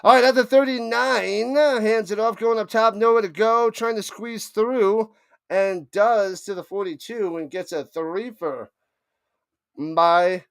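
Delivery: live game call, running with the action; play-by-play call. Acted. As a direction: narrate the run like a broadcaster.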